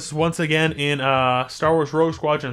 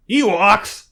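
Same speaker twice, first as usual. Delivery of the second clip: loud, higher mock scolding; mock outrage; 6 semitones higher, 8 dB louder, slower than usual. Player scolding the Ewoks as their queen, mock outraged. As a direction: play the offended ruler, loudly.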